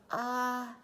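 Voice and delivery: drawn-out, stalled "uh"s with gaps; mind gone blank. A narrator's reading. Arthur practicing for father with mind blank, stalling. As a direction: stall helplessly, searching for words. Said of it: "made Arthur's mind go blank".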